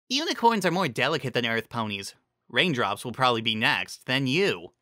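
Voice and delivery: a hint of a know-it-all unicorn; a lightly voiced mare reasoning aloud; lightly voiced Trixie. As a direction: explain it matter-of-factly.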